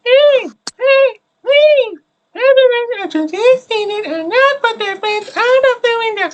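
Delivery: very high, loud bus driver yell; bored bus driver. Acted. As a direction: bark it out like a fed-up bus driver. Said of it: "You wanna do the bus driver voice again?".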